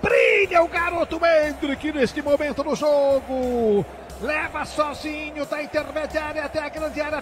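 fast, excited live play-by-play; brazilian football narration. Real, not acted. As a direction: call the goal replay like radio. Live radio football commentary. (narração de futebol no rádio)

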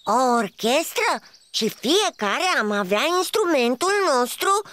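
rising, pleased exclamation; light up at the idea; delighted. Acted. Snail delighted by orchestra idea, pleased exclamation. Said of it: "se bucură Bobiță".

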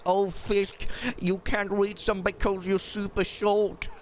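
lightly voiced chat heckler; mock viewer taunt. Viewers mocking Fisk for being short, teasing. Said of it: "I don't wanna hear it, guys".

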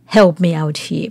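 normal talking voice

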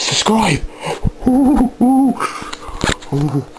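high hammed-up gasp of surprise; mock shock. Shocked at being told to subscribe, hammed-up high squeal. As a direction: ham up the horror of subscribing.

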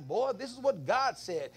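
lightly voiced tough-love dad; stern dad talk. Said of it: "I talk to them like".

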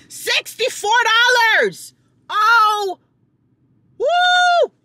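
high yelp at the price; outraged disbelief. Real, not acted. Vlogger shocked at her grocery bill, high outraged squeal. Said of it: "I'm so annoyed".

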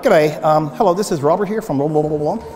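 low, quick, polite phone greeting; white-guy phone voice. Shown as a demonstration. Pastor showing how he talks on the phone, lightly proper white-guy voice. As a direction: rattle off a proper caller's introduction. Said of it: "When I talk on the phone with you".

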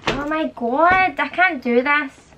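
high-pitched exasperated wail; frustrated, pitch jumping up. Real, not acted. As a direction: give up on a botched take. Flubbed take, gives up.

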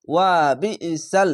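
"ওয়া বিইসাল" with a push on বি; jolting emphasis. Shown as a demonstration. Teacher models the word for learners, with a jolt. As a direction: recite it slowly, jolting বি to a brief catch. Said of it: "এখানেও ঝোঁক মেরে পড়েছিলাম".

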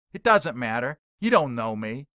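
loud, curt comeback; sharp retort. Acted. Heckler snapping back at the preacher, sharp and loud. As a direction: bite the words off at him. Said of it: "Billy Mack says back sharply".

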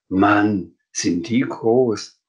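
slow, drawn-out amazement; amazed. Acted. Sams seeing the dragon's wide wings, amazed. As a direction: stretch the words in wonder. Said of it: "Der Sam staunte".

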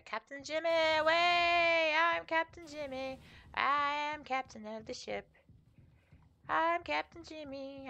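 lightly voiced self-important captain. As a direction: declare it grandly. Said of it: "Jimmy starts talking like this".

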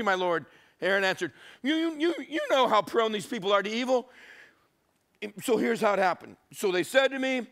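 put-on high, pleading kid excuses; whining third grader. Aaron pleading with angry Moses like a third grader. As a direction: babble the excuses like a caught schoolkid. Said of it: "Aaron's gone third grade".

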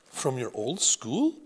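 put-on slow, lightly French-accented question; a grandmother checking, French accent. Grandmother asks about old school, French accent. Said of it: "Grandmere had a thick French accent".

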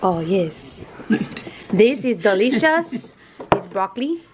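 hammed-up, vaguely Chinese accent; almost Chinese accent. Host calling the broccoli delicious, mock Chinese accent. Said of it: "You sound almost Chinese".

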